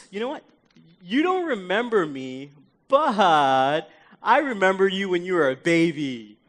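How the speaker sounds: lightly acted gushing family friend; parents' friend. Parents' friend greeting a kid, lightly gushing. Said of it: "one of your parents' friends coming up to you and say".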